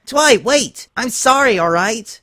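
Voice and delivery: high, loud desperate plea; pleading shout. Acted. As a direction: call out, begging her to wait. Dash pleads loudly.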